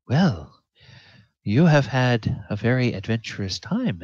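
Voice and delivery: measured, courteous elder asking questions; village elder voice. Acted. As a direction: speak as a polite village matron.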